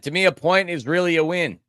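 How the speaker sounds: talking through hiccups. Real, not acted. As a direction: speak with the hiccups. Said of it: "Excuse me, I got the hiccups".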